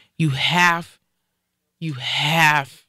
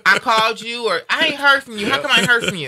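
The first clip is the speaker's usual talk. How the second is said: laughing through it; 5 semitones higher, 3 dB louder than usual. Real, not acted. Laughing while imitating fussing.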